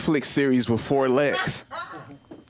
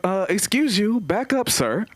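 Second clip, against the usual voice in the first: higher, sassy mock offense; sassy dog voice; 8 semitones higher than usual. Comic voicing his traumatized dog telling him off, sassy. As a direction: talk back like an offended diva. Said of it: "She's like".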